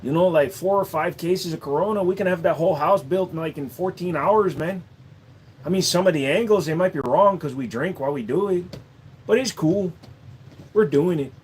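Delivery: lightly put-on Mexican accent; a hint of a Mexican accent. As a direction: keep the easygoing Mexican handyman going.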